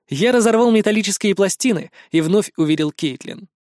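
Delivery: usual speaking voice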